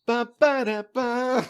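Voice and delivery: high, silly goblin gibberish; goblin babble. Pretend. Goblin player babbling nonsense, high and silly.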